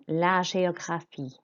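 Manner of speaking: GÉOGRAPHIE with "zh" then "ay"; soft French G. Shown as a demonstration. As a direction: model GÉOGRAPHIE as "zhay-o-gra-FEE". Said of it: "the G makes a Z sound".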